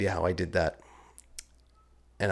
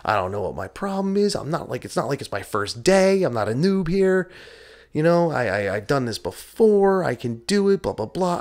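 retold angry rant; 6 semitones higher, 4 dB louder than usual. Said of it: "I was cussing angry".

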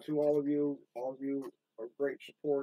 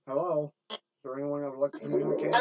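louder, calling out into an empty room; calling into the dark; 4 dB louder, faster than usual. Real, not acted. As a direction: call out to the spirits. Ghost hunt, calling out to spirits.

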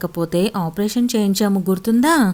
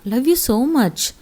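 tender; 6 semitones higher, much slower than usual. Acted. Husband comforting his crying wife.

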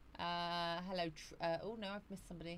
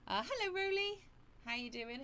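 sing-song hello; 12 semitones higher than usual. Acted. Sing-song greeting to a viewer.

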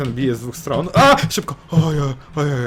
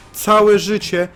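high, loud indignant repeat; first take high and loud; indignant cry; 8 semitones higher, 5 dB louder, much slower than usual. Real, not acted. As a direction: cry it out in disbelief. Repeats complaint in disbelief.

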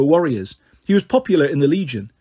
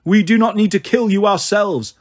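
mild growl; 4 semitones higher than usual. Acted. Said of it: "the pater growled".

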